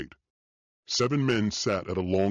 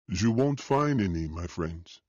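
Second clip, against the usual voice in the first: put-on French accent. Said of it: "said in a thick French accent".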